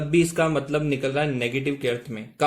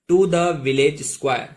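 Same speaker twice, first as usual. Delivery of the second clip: slow model reading; 3 dB louder, much slower than usual. Shown as a demonstration. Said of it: "ठीक है दोस्तों".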